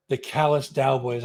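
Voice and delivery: carefully pronounced band name; measured, deliberate delivery; slow and careful. Real, not acted. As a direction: say the name slowly to get it right. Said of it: "I have to say it slow so I get it right".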